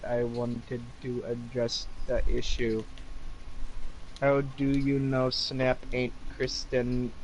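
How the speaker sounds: light put-on Indian accent; mild mock Indian accent. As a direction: read the author's note in a hint of an Indian accent. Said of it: "I went into an Indian accent".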